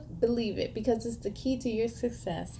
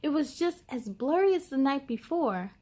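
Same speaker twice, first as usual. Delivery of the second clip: put-on lively read-aloud to children; picture book reading. A narrator's reading. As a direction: tell the story brightly to young listeners.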